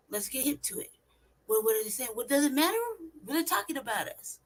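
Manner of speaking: ordinary talk, nothing marked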